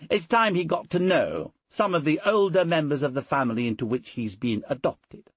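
mistress of the house. Acted. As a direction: lift the voice high for the mistress. Portia speaks to Cassius.

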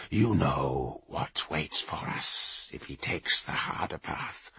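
low, slow, grim warrior priest; stern Rune Priest. Acted. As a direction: speak low and heavy, with authority. Kavar's low held voice.

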